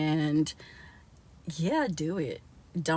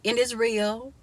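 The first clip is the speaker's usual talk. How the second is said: proud boast; 4 semitones higher than usual. Retold or imitated. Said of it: "And I'll be like".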